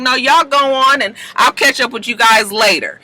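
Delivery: put-on high, breezy girlfriend voice; mock breezy Desna; breezy brush-off. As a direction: play it off lightly.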